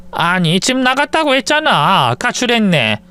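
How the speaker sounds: lightly voiced, slow insisting mother-in-law; a hint of an old mother insisting. Mother-in-law insists daughter left.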